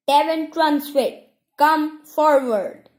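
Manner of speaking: high, loud herald's proclamation; penetrating voice. A narrator's reading. Isla proclaims the ceremony to the crowd, penetrating and loud. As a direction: ring it out like a town crier. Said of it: "in a penetrating voice".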